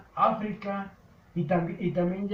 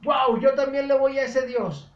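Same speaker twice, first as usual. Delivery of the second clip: amazed king; 7 semitones higher, 8 dB louder than usual. Acted. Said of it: "abre los ojotes el rey Darío y dice".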